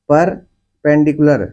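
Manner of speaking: परपेंडिकुलर slowly, with a break after the first syllable; slow teaching model of परपेंडिकुलर, split into chunks. Shown as a demonstration. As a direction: stretch परपेंडिकुलर out in parts for the class. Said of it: "कैसे बोलते हैं?".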